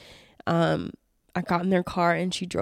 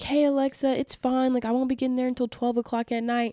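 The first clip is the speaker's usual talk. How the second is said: higher, polite reassuring voice; own younger voice; 5 semitones higher than usual. Retold or imitated. Telling Alexa it's fine, higher and polite. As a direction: brush off the favor, lightly higher. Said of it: "I was like".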